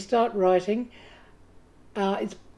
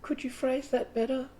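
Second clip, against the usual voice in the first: sniffy inner critic; 4 semitones higher, 7 dB quieter than usual. Retold or imitated. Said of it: "It's the voice that goes".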